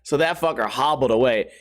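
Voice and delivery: ordinary delivery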